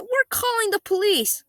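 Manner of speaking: high, squeaky dad threatening; mock squeaky threat. Quoting the dad's threat.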